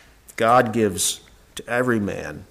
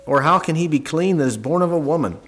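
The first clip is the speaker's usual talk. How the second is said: scripture reading. Acted. Preacher reads Job aloud.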